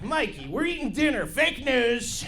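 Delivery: hint of a bragging Trump voice; Donald Trump impression. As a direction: brag like a mini Trump about the bowl. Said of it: "like a mini Donald Trump".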